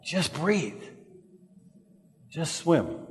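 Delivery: soft, simple urging; hushed reminder. Real, not acted. Preacher recalling the fundamental for listeners, hushed reminder. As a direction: drop the volume, keep it simple.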